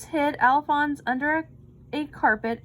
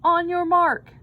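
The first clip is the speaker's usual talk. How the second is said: loud high bellow; 6 semitones higher, 7 dB louder than usual. A narrator's reading. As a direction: call the start like a coach. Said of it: "bellowed the coach".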